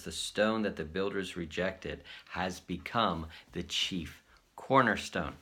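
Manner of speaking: slow, measured verse reading; slow Bible reading; scripture reading. Shown as a demonstration. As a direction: read the verse out solemnly. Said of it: "I want to read you this verse".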